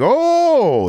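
very high excited oh; amazed gasp. Retold or imitated. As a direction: gasp in delight. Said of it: "He's like".

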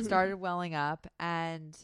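the words "Started welling up and" drawn out slowly; slowed retelling. Retold or imitated. Retelling crying at a review, slow and deliberate. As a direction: ease back into the story, slowly. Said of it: "repeats the phrase after aside".

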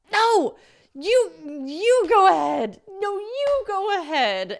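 high, slow, sugary put-on politeness; overly sweet no-you-go-first voice; coyly insisting the men go first; sweet fake-polite.

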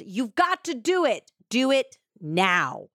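urgent retold yell, no real volume; mild mock yell. Attacker yelling to his accomplice, mildly mimicked. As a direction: imitate an urgent order, slowing on the end. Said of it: "his attacker yelled".

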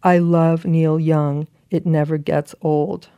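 slow, deliberate proclamation; big-font emphasis. Acted. Rereading the letter's big text to a laughing friend, slow and emphatic. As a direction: spell out each word as a headline. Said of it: "and then in big font, big text".

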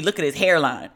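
friend's complaint, falling at the end; matter-of-fact acted protest; mock objection. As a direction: imitate a friend pointing out a flaw.

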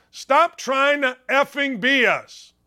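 mocking the quote slowly; mocking repeat. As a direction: stop stressed and drawn out. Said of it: "this guy says".

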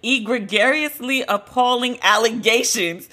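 reading through suppressed laughter; laughing. Real, not acted. Host reading a pompous press statement, laughing. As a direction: try to read on while amused. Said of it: "I'm laughing".

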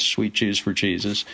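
a hint of a Southern accent, mock lamenting. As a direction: drawl it like a mildly dismayed Southern store detective. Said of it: "laments in the Southern accent".

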